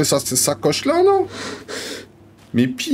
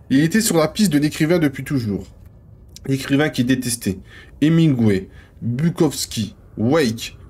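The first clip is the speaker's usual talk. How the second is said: measured manuscript reading; understated literary narrator; story narration. Acted. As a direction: read it out like a novel, pausing between names. Reads manuscript page aloud.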